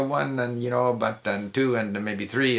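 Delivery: "one and... two and", trailing each number into filler; softly string "one", "two", "three" along with loose fillers; hesitant, linked phrasing. Shown as a demonstration. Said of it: "they don't speak like, it's not like".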